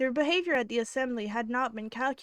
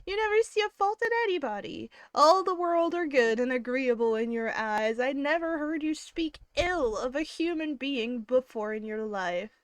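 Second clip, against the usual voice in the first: lightly voiced Elizabeth teasing Jane about her kindness; Elizabeth, teasing sister; 2 semitones higher, 4 dB louder than usual.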